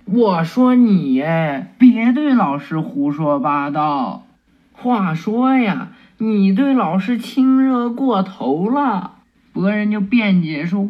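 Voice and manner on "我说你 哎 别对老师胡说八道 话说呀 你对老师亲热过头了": scolding. Acted. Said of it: "围上去就骂博人".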